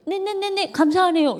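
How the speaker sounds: the daughter's cheeky reply, imitated; sarcastic thanks. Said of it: "우리 둘째 딸 말이".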